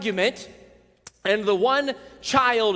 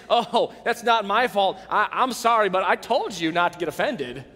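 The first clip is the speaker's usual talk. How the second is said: fake apology. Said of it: "A faux apology".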